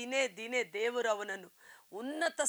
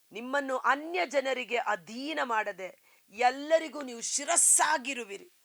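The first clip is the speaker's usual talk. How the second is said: ordinary talk, nothing marked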